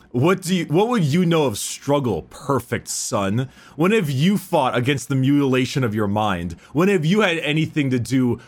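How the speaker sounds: lightly dramatised bitter warrior's speech; Angron. Acted. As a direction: declaim it as a measured challenge to a rival. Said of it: "a quote from, uh, Angron to Gilliman".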